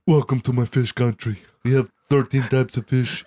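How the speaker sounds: lightly voiced deep-voiced seductress; a hint of a husky-man voice on a woman; Femme Brando. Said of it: "she had a voice much deeper than his own".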